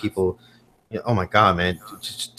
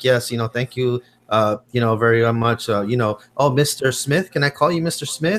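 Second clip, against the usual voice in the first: put-on Indian English accent. Complaining about customer service calls, quoting the lady on the line: imitating Indian English accent. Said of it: "that lady that's like from India or something".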